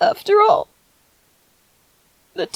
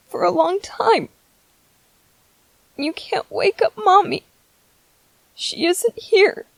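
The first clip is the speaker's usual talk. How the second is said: tender sadness; 4 dB quieter than usual. Acted. Softly telling baby mommy's gone.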